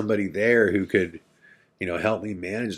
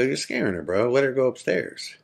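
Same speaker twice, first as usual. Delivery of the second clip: urgent plea; 7 semitones higher, 3 dB louder than usual. Retold or imitated. Begging Donnie to free Katie.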